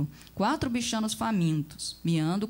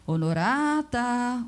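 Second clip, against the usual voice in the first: louder call; 4 semitones higher, 4 dB louder, much slower than usual. Acted. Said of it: "o outro insistiu um pouco mais alto".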